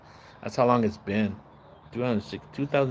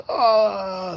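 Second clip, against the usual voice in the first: mock scream; 6 semitones higher than usual.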